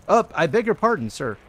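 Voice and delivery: lightly voiced snooty toff, high; a hint of a posh sneer; drunken posh sneer. Voicing a snooty in-game character.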